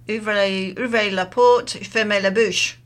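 put-on "fermez la bouche" in a self-consciously amateur French accent. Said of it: "that's as good as my French accent is".

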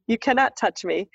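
steady, firmer repeat of the warning; firm refusal. Retold or imitated. Me to the ghost, a firm steady repeat. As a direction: set the boundary plainly.

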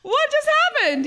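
very high, loud disbelief; giddy retold amazement; amazed delight. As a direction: squeal it in happy astonishment. Acting out their delighted amazement.

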